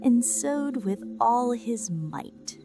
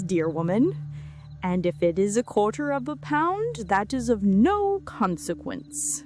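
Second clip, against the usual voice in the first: tailor voice; 4 semitones higher, 3 dB louder than usual. Acted. Tailor speaks to the woman.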